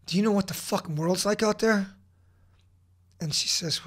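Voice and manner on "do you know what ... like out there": re-enacted indignant challenge, higher pitched; angry demanding. Husband challenging his crying wife, retold indignation. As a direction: throw it at them as a retold outburst.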